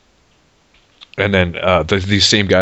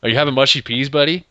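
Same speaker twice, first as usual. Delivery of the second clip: higher-pitched, put-on British voice; mock British accent; 6 semitones higher than usual. Teasing co-host about mushy peas, mock British accent. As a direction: ham up a fussy British accent.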